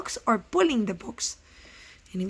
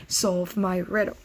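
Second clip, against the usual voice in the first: mock grumpy troll, lower; a hint of a grumpy old troll; 4 semitones lower than usual. Teacher voicing the troll for her class. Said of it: "in a grumpy voice".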